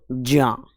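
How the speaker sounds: ज्ञान built from j plus ya, drawn out "jyaan"; sounding it out. Shown as a demonstration. Teacher having students try the pronunciation, slow "jyaa". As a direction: stretch ज्ञान slowly as "jyaa". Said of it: "उच्चारण तो करके देखो".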